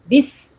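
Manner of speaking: "بس" with a long whistling s; whistling Seen. Shown as a demonstration. Teacher demonstrates seen, whistling s in "بس". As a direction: close the teeth and hiss out the end of "بس". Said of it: "سیٹی کی آواز نکالیں".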